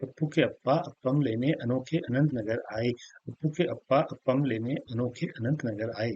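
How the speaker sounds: brisk tongue twister demo; quick tongue twister. Shown as a demonstration. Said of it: "इसको जल्दी-जल्दी बोलना है".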